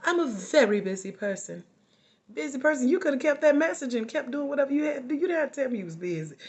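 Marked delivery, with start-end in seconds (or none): 0.0-1.6 imitated self-importance. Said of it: "somebody literally said this". 2.3-2.9 scornful echo. Real, not acted.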